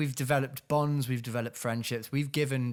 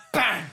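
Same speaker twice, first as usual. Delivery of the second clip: shouted bang; mock gunshot; 7 semitones higher, 6 dB louder than usual. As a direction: punch out a gun sound. Imitated gunshot.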